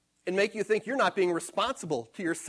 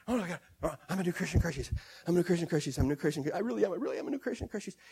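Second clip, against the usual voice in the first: mock nervous reciting, softer and rushed at the end; anxious repeating; 3 semitones lower, 5 dB quieter, much faster than usual. Preacher mocks a believer who nervously repeats the verse, softly. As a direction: fret the verse over and over. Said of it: "you can wear yourself out with that same scripture".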